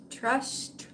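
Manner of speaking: fighting back tears, barely able to get the words out; choking up. Real, not acted. Telling viewers about trust while choked up, whispering. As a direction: voice breaking into a whisper, slow. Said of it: "if I could fucking talk".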